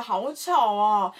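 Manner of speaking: put-on very slow, dragged-out kid whine; child complaining. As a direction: drag it out like a whining pupil. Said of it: "就说". (小朋友拖长声音抱怨)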